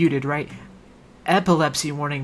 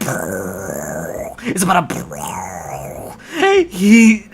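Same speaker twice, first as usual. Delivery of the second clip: breaking up laughing; 11 semitones lower, much slower than usual. Real, not acted. Overcome mid-sentence.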